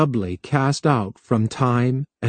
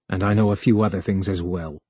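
grimly; 4 semitones lower than usual. Acted. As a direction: say it grim and knowing, then stop. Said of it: "He added grimly".

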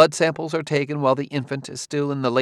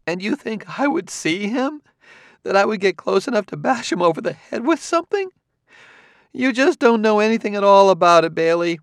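higher, scornful woman's voice, building louder; a higher, scornful female character voice rising in force; Clarissa, scornful woman; 11 semitones higher, 5 dB louder than usual. Acted. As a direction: scoff at the detective's theory.

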